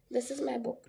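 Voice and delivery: this is my book falling at the end. Shown as a demonstration. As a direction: state this is my book and let it drop. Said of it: "this is my book is a falling tone". (this is my book उतरते सुर में)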